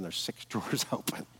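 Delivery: chuckling mid-line at the drawers; laughing. Retold or imitated. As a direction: laugh through the word drawers. Same complaint retold with laugh.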